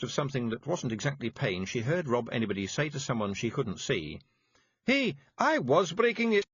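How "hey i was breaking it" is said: gently. A narrator's reading. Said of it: "he heard gently".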